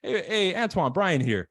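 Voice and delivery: relaxed friendly hello; casual greeting. Shown as a demonstration. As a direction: greet him like an old buddy. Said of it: "I'm gonna say".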